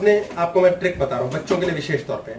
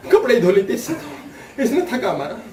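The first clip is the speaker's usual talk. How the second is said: mock wife laughing; 3 semitones higher than usual. Mock wife's complaint.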